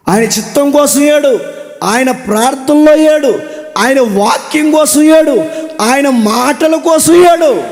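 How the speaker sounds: rising exhortation. Acted. Preacher exhorting crowd, building.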